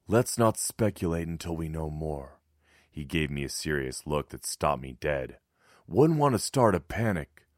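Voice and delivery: lightly voiced, firm older man; a hint of stern resistance leader; gruff neighbour voice.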